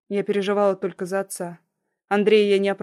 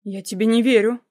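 louder defiant shout; loud cry; 3 semitones higher, 6 dB louder than usual. Acted. Heroine shouts at her lying ex, loud cry. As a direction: throw it in his face. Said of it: "громко крикнула".

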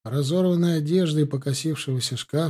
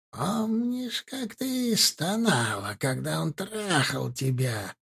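gurgling crone voice; 3 semitones higher, 5 dB quieter, slower than usual. Acted. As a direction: taunt in a choking, gurgling voice. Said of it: "Булькающим голосом, захлёбывающимся в смраде".

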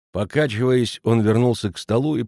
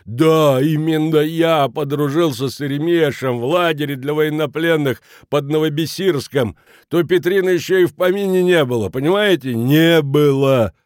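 furious; 5 semitones higher, 4 dB louder than usual. A narrator's reading. Kelemen insisting to the bar, furious and loud. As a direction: pound the point home in rage. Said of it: "яростно колотя кулаком по стойке".

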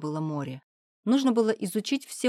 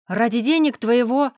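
higher, much louder cry stressing денег; blurted outburst; 6 semitones higher, 10 dB louder than usual. Acted. Father lets the secret slip, loud outburst. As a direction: blurt it out, then stop short.

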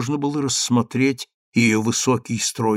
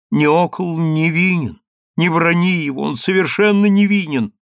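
pleading defence; 5 semitones higher, 5 dB louder than usual. Acted. Daughter defends her lover.

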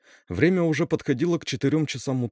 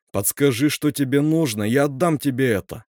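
громко, умоляюще; 3 semitones higher, 4 dB louder than usual. Acted. Герой в ужасе умоляет.

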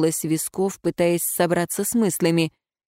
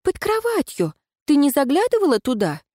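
put-on girl's voice; 7 semitones higher than usual. Amina's voice in narrated dialogue.

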